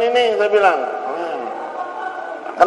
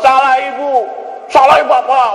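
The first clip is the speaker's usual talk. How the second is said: pitched-up pretend shouting across a distance; mock quarrel yell; 6 semitones higher than usual. Shown as a demonstration. Spouses with distant hearts blaming each other, mock yelling. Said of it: "makanya kudu teriak tuh".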